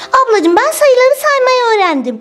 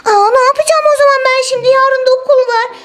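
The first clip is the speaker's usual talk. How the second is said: worried; 5 semitones higher, faster than usual. Acted. Panics about school tomorrow.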